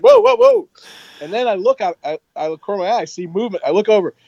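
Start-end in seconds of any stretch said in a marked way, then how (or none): 0.0-0.7 very high squealed whoas; alarmed whoas. Retold or imitated. Officers seeing the hands, very high alarmed whoas. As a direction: rear back in alarm. Everyone reacts to raised hands.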